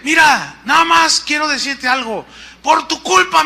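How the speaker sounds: high, forceful mock reproach; ironic. Pastor phoning the man who gave him the offering, ironic. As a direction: imitate a caller pinning blame, pitched well up. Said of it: "en tono irónico me dice".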